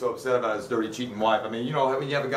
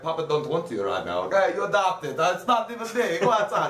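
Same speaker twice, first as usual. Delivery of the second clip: mock Italian; 3 semitones higher than usual. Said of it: "I don't know why he's Italian all of a sudden".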